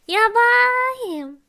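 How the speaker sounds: high, drawn-out mock-dismayed cry; exaggerated wailed outburst; playful exclamation. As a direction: stretch the middle vowel high and long. Exclaims it after laughing apology.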